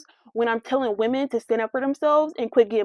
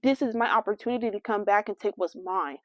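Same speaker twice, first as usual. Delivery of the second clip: voicing the dog; 4 semitones lower, 6 dB quieter than usual. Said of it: "your dog seems like".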